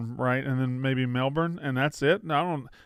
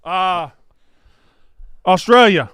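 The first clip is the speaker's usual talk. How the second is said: acted exchange; 4 semitones higher, 7 dB louder than usual. Acts out bluff called, then panic.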